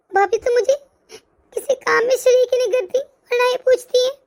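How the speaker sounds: hurt, close to sobbing; a crying complaint to her late mother; tearful complaint. Acted. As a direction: voice catching into a cry. Lonely sister-in-law complains, crying.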